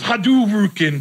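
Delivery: game move shout; Street Fighter call. Retold or imitated. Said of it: "Usually he goes".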